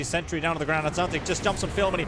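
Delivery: live esports casting, fast and loud; excited play-by-play. Real, not acted. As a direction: ride the teamfight with rising hype.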